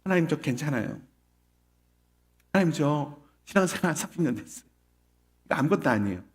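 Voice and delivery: subdued acted stoicism; putting on fine. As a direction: play down hardship while praying. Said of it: "힘든데 힘든 티 내지 않고".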